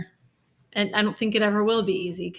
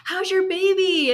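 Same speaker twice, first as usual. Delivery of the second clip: much higher and louder, innocently cheerful; oblivious coworker asks about the baby, high chirpy imitation; imitating a chirpy coworker; 11 semitones higher, 6 dB louder than usual. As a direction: ask it brightly, not knowing. Imitating the model's question.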